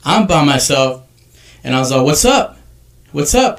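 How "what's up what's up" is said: taunting call. Retold or imitated. Confronting the guy at store.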